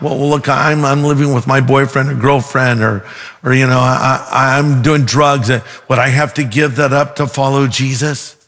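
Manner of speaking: low, halting admission with restarts; hesitant question. Retold or imitated. New seeker asks about following Jesus, hesitant. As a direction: stumble through a reluctant confession.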